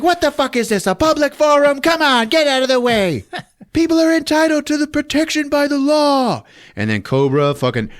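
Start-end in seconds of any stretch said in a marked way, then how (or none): 0.0-6.4 high, loud exasperated voice; mock angry partner. Larry clearing the reporters, high loud mock anger. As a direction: shove them aside. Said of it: "Larry's like".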